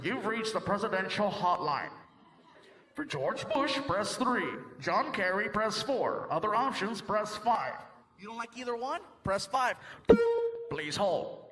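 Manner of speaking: a touch of an automated phone menu; recorded hotline voice. Pretend. Presidential hotline recording, lightly voiced phone menu.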